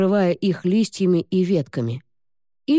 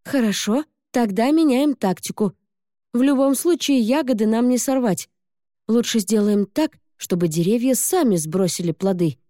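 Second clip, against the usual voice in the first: put-on eager girl; 6 semitones higher than usual. Girl plans new tactic.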